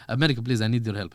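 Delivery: low-pitched plea in a put-on Eastern European accent; a hint of Eastern European accent, begging; Benjamin Netanyahu. Leader asking America for help, light Eastern European accent. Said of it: "this is Benjamin Netanyahu, yeah?".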